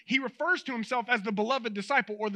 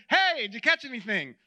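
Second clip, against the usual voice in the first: calling out; 4 dB louder than usual. Retold or imitated. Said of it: "calls out".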